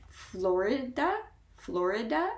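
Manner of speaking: Florida said carefully with a rising end; variant pronunciation. Shown as a demonstration. Showing how some pronounce it differently, careful variant Florida. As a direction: lift the end of Florida, each syllable distinct. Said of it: "many people who pronounce it slightly different".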